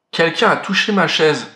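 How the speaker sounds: a hint of a big papa bear; lightly voiced big bear; the father bear finding the door open, a light big-bear voice. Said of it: "de sa grosse voix".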